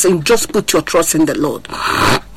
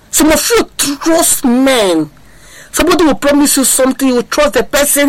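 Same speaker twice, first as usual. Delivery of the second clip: rising preaching fervour; 6 semitones higher than usual. Real, not acted. Preacher rebukes congregation.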